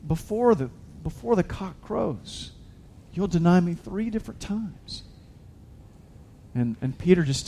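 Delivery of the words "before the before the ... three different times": gentle, loving. Retold or imitated. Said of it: "really just in love and".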